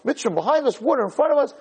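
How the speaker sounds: high-pitched pretend panic; acted-out distressed appeal; urgent plea. Acts Moshe pleading when trapped.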